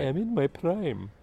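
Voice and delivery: slow Irish lilt, playing Miss Brodie; Irish accent. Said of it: "Didn't know you could do an Irish accent".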